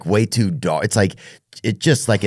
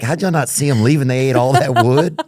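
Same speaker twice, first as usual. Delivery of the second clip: retold disbelief; 5 semitones higher, 4 dB louder than usual. Retold disbelief at missed termites.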